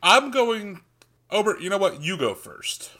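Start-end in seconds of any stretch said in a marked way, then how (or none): 2.0-2.9 whisper. Real, not acted. Quick aside handing over turn.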